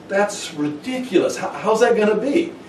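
high, hushed mock disbelief; incredulous amazement. Hearing God's promise, acted high incredulous reaction. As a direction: squeak it softly, acting baffled.

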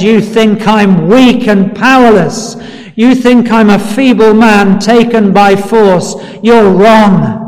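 understated triumphant rebuttal; victorious defiance. Acted. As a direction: declare it as a defiant victor, without shouting. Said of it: "It was a voice of victory".

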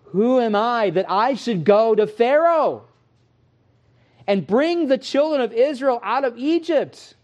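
shaking voice. Retold or imitated. Moses at the burning bush, a high shaking voice. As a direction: quaver like a frightened man. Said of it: "with this shaking voice".

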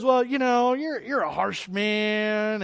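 mildly acted excuse, dragging out the words; servant's excuse. Servant excusing himself to his master, mildly protesting.

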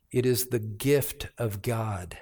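hushed whisper of scripture; whispering the gift of God; whispered verse. Acted. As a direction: breathe it as a whisper.

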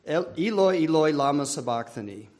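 put-on "Eloi, lama sabachthani" said the way a boy would, not quite the right Aramaic; childhood pronunciation. A boy in a church prayer group reciting his favourite verse, a bit off. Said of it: "that's how I said it".

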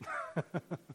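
soft, breathy chuckle. Real, not acted. Preacher who lost his verse, soft self-amused chuckle. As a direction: laugh softly at yourself.

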